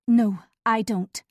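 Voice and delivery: "No, I don't" with the "I" pressed, slow; stress on I. A narrator's reading. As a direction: lean hard on "I", a touch defensive. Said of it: "Emphasis on the word "I".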